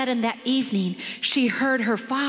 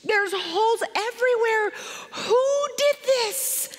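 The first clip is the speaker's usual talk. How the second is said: mad father; 8 semitones higher than usual. Retold or imitated. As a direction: exclaim it as an appalled, angry dad. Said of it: "she saw that he was so mad".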